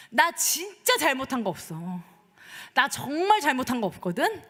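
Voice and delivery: mildly acted exasperated protest; 답답한 항변. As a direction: plead your innocence with halting frustration. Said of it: "너무 답답하면서 막 항변을 해요". (답답해하며 항변하는 연기)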